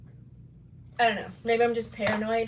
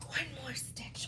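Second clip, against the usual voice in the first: quiet; 3 semitones higher, 11 dB quieter, slower than usual. Retold or imitated. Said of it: "I was just like".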